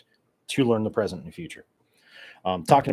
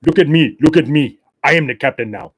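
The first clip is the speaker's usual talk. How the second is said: shouted, higher movie-pirate line; Captain Phillips pirate quote; 5 semitones higher, 11 dB louder than usual. Retold or imitated. Podcaster quoting Captain Phillips to his listeners, loud pirate shout. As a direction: bark it like the pirate taking over the ship. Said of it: "what was it, Captain Phillips?".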